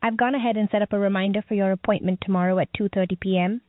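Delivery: bright, scripted virtual assistant; chirpy over clear scripted. Acted. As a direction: read it like a cheerful help bot.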